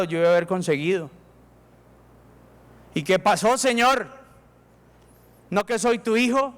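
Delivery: a hint of an entitled grumble to God; proud complaint. Proud heart grumbles to God about its rights, mild. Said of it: "orgulloso dice".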